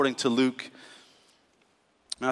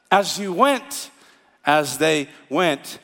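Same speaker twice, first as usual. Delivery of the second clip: slow emphasis; much slower than usual. Shown as a demonstration. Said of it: "slowed repetition of key phrase".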